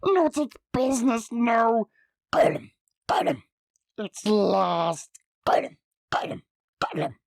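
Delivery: frantic wailing Gollum; Gollum crying out. Acted. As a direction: wail in despair.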